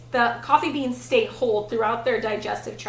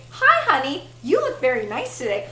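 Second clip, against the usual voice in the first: doting husband impression. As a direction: play an idealized husband complimenting his wife. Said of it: "usually husbands say".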